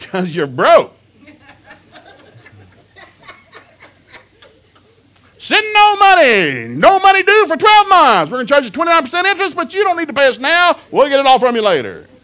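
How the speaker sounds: very loud, very high, shrill ad pitchman hollering. Mocking car commercials that yell at broke viewers, imitating a yelling tv commercial. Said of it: "Why are you yelling at me?".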